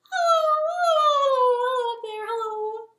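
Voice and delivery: very high squeaky hellos; tiny mouse voice. Shown as a demonstration. Host shows kids a high mouse-voice hello. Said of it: "So teeny tiny mouse voices".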